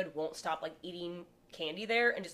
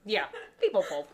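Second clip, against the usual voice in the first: Minnesotan accent; 2 semitones higher, 5 dB louder than usual. Real, not acted. Host echoing a friend's definition, in a Minnesotan accent. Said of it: "When real Minnesotan there".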